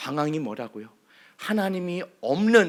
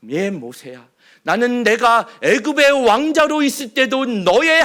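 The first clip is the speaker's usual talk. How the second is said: louder, firm, declaring voice of God; God's answer; 4 semitones higher, 5 dB louder than usual. Acted. God answers the complaining Moses, firm and declaring. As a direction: proclaim it as God himself. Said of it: "뭐라고 대답하시죠?".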